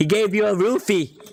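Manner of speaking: yelling across a distance. Shouting toward the scientist across the room: shouting in character. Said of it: "I shout in that direction".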